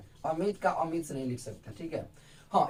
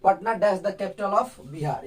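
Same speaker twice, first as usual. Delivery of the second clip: slow repeat; slower than usual. Shown as a demonstration. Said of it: "हमने क्या बोला".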